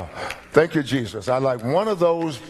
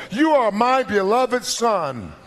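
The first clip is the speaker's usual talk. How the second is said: voice of God, alternate wording; 5 semitones higher than usual. Retold or imitated.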